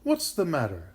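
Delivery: loud, rounded kindly inquiry. A narrator's reading. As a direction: ask kindly, with full voice. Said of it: "said a kindly voice".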